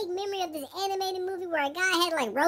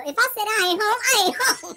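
defiant; 4 semitones higher, 4 dB louder than usual. Acted. Defiant quote, hiding from someone.

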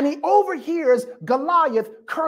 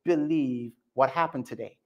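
low, soft, confidential; father telling his wife the news, hushed and amazed; 7 semitones lower, 7 dB quieter than usual. Retold or imitated. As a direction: tell her quietly, amazed. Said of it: "and he's like".

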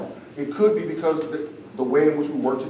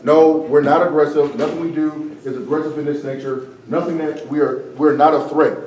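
insistent, slightly louder denial in a lightly voiced China; mock denial; 3 dB louder than usual. Debate coach voicing China insisting it is not aggressive, mock insistent denial. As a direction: play a nation brushing off blame, lightly. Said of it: "China can constantly be like".

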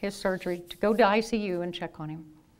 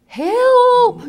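shrill high scream; screaming for help; 14 semitones higher, 11 dB louder than usual. Retold or imitated. Student hiding under the bed, screaming for help. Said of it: "I started screaming".

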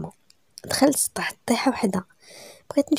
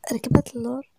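plain reading voice

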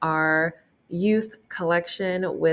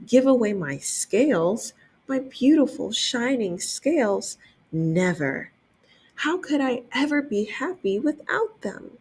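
higher, incredulous whining refusal; indignant disbelief; 5 semitones higher than usual. Acted. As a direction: clutch your scales and refuse. Rainbow Fish refuses to share.

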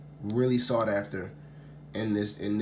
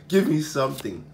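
firmer, more forceful begging; insistent plea; 3 semitones higher, 4 dB louder than usual. Real, not acted. Opener begging the pack once more, insistent plea. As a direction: plead harder, raising your voice. Repeats the plea louder after laughing.

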